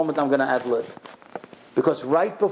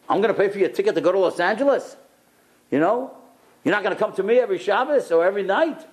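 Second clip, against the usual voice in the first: bossy father-in-law; 4 semitones higher, faster than usual. Retold or imitated. Father-in-law voiced, bossing.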